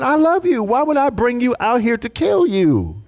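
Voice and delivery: as God, hurt and loving, ask why. Retold or imitated. Preacher voicing God to complaining Israel, high and tender. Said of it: "God said".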